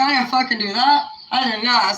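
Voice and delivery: loud, emphatic retold denial; pissed-off denial. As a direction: imitate an angry man protesting innocence. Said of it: "he's all pissed".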